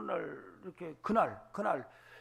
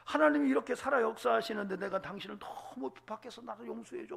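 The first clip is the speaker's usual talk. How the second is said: tearful plea; 5 semitones higher, 8 dB louder than usual. Retold or imitated. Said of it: "울면서".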